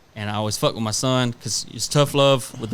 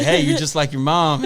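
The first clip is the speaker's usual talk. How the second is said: higher, louder teasing through a laugh; laughing tease; 4 semitones higher, 5 dB louder than usual. Retold or imitated. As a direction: tease the kid gleefully.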